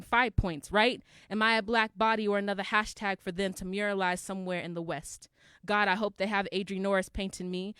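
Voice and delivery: steady, rhythmic verse delivery; controlled slam poetry, line after line; spoken-word poem. Acted. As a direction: roll the list out in an insistent cadence. Performs the poem's long verse.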